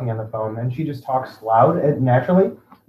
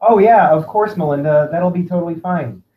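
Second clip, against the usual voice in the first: acted agreeable reply. Acting out reply to a caller.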